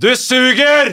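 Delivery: mock very high, fed-up screamed shriek. The speaker acts out someone who screams at them while they try, retelling a heckler's scream. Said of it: "som skriker".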